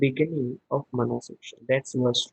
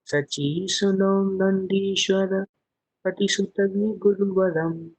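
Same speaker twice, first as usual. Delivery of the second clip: verse recitation. Acted. Chants the Sanskrit verse.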